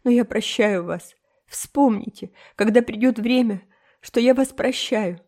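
put-on high, melodramatic tearful girl; tearful, tragic. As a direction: play the heartbroken martyr. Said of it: "сказала Энн рыдающим голосом". (Энн трагически, со слезами в голосе)

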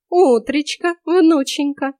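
high, loud sugary hello; sugary fake grandma welcome; fake sweet greeting. A narrator's reading. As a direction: greet with a false grin. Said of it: "оскалилась фальшивой улыбкой она".

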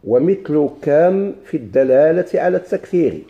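slow, measured reading of a classical text; formal classical Arabic recitation. Acted. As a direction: read it out slowly, word by word. Reads the book text aloud.

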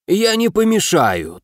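чуть выше и медленнее, лёгкий голос говорящего меча; едва обозначенный волшебный меч, неторопливо. A narrator's reading. Говорящий меч вставляет реплику. (слегка изменённый голос меча)

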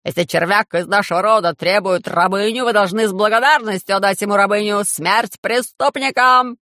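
a haughty noble yelling for blood; shouting. Acted. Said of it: "закричал".

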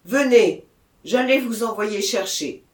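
loud, pressing call; mayor urging the officials closer; urgent summons. A narrator's reading. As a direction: hurry them in.

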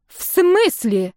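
high, drawn-out disbelief; disbelieving. A narrator's reading. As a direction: she can't believe her ears. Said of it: "не поверила подруга".

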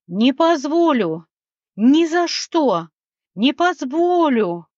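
high, drawn-out gnome squeal; squealing protest. A narrator's reading. Gnome refusing to give up treasure, squealing. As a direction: squeal each refusal slowly, pitch swooping up. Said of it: "заверещал Рослик".

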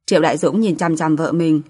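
plain reading voice

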